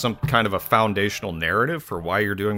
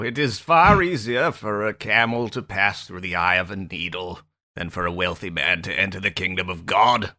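history documentary voice. Acted. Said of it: "do you have a name for that voice".

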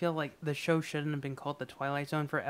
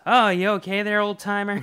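higher and louder, mock concerned counter kid; hammed-up soda jerk; 5 semitones higher, 7 dB louder than usual. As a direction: fuss over the limping old timer. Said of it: "and he goes".

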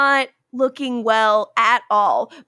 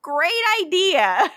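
sarcastic; 7 semitones higher, slower than usual. Retold or imitated. Rebecca's sarcastic reply, retold.

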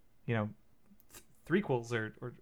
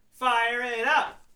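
slow rising hype chant; excited; 6 semitones higher, much slower than usual. Acted. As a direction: stretch it, rising at the end. Repeat, rising.

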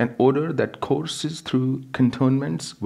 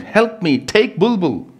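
higher, louder frantic plea; desperate plea; 11 semitones higher, 6 dB louder than usual. Acted. Wife begging her husband to take their daughter, frantic. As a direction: beg him to take the child. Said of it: "Rama screamed".

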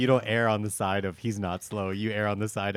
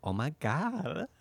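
steering wheel guy voice; 3 semitones higher, 6 dB quieter, much slower than usual. Pretend. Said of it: "you had to get into the voice".

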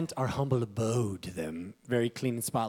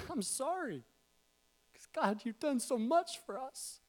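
high, slow, earnest plea to God; pleading prayer; 10 semitones higher than usual. Real, not acted. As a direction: pray it out contritely. Preacher turns to pray aloud.

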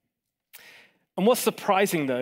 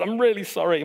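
put-on higher-pitched, apologetic British accent; best British accent; 4 semitones higher, faster than usual. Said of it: "my best British accent".

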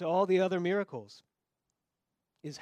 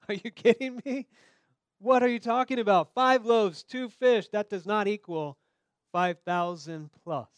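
high, loud mock disbelief; incredulous disbelief; 4 semitones higher, 7 dB louder than usual. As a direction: scoff like it's absurd. Voicing disciples' disbelief.

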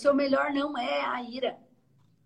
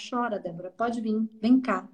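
inviting comfort. Retold or imitated. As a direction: gently invite her to let the tears come. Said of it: "eu entendo a Débora".

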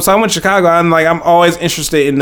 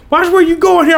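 high, mocking warning voice; mock warning, pitched up; mock tough local. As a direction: imitate a rude local warning him. Retold street confrontation.

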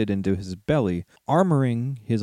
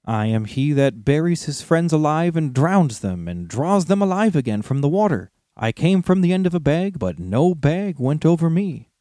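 proud little hobbit, riddling; 5 semitones higher than usual. Acted. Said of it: "went on Bilbo".

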